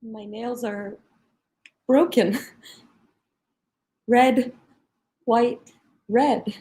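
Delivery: dazed, hurt. Acted. Injured detainee dazed in prison van.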